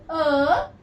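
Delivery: "अ" said as the "uh" vowel of cup; short U sound. Shown as a demonstration. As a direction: show "अ" as a short-U "uh". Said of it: "इसका short sound". ("अ" को छोटी ध्वनि "अ" की तरह)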